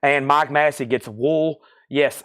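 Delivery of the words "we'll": "Wool" for we'll, in a Southern accent; Southern drawn "Wool" in place of "we'll". Real, not acted. Auctioneer calling out a song title, Southern accent "Wool". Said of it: "That is my Southern accent".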